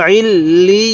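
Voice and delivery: "আইল লি" slow, l doubled and ee drawn out into a y; doubled letters. Shown as a demonstration. Teacher showing learners letters pronounced twice, slow drawn-out joining. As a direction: lean on the double l in "আইল লি", stretching the vowel. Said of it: "কীভাবে শিখব?".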